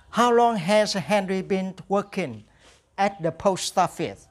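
slow, clear English question; slow drill model. Shown as a demonstration. Teacher drills the Henry question slowly for students. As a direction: read it slowly for the class to copy. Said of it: "Now repeat after me".

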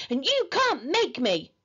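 put-on stubborn child's protest; yelled defiance. A narrator's reading. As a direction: defy the parents in a mild yell. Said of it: "yelled Henry".

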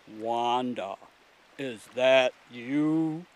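low, slow, drawn-out creature voice; ponderous low voice of a talking rock; deep, faraway voice. A narrator's reading. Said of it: "a deep, faraway voice from within the rock said".

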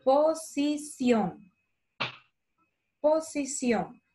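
posición said slowly, stress on the last syllable; spelling posición. Shown as a demonstration. Teacher showing the spelling of posición. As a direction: draw out posición so s and c are clear. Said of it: "la siguiente es con C y con tilde en la O".

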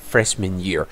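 "year" ending on an R; R sound demonstration. Shown as a demonstration. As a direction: model the final R in "year". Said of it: "และเสียง R นะครับ".

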